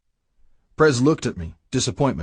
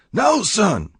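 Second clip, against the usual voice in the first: higher, louder roar of alarm; 11 semitones higher, 4 dB louder than usual. Acted. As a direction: yell to stop him before he shoots. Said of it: "Blackjack roared".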